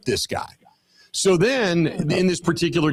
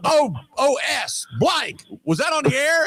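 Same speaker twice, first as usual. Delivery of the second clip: mock sheepish aside; 11 semitones higher than usual. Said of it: "he looks at me and he goes".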